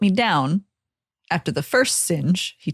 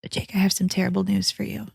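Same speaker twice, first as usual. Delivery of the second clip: soft unvoiced whisper; 5 dB quieter than usual. Real, not acted. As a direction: breathe it as a secret. Whispered bad news.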